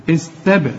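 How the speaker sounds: "استبر" with qalqala on the b; echoed baa. Shown as a demonstration. Teacher demonstrates qalqala, bouncing the b of "استبر". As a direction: give the b in "استبر" a small released bounce. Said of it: "الباء هنا هقلقلها".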